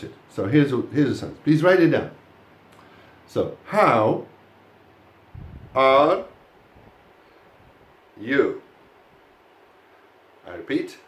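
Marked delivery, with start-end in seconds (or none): 3.3-8.6 word by word with long pauses; robotic dictation. Shown as a demonstration. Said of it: "as if I were a robot".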